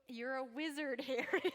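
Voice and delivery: lightly voiced Hagrid breaking into a laugh; amused half-hearted Hagrid; Hagrid impression, laughing. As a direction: giggle through the giant's line. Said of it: "That was my Hagrid impression".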